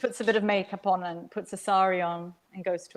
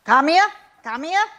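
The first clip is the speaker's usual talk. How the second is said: high, louder coaxing call; coaxing auntie; 7 semitones higher, 7 dB louder than usual. A narrator's reading. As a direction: lure the child over sweetly. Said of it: "crooked her finger at me".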